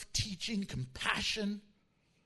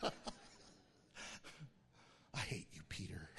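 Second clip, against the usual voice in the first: mock annoyed disciple; 15 dB quieter, faster than usual. Joking disciple teased by Peter.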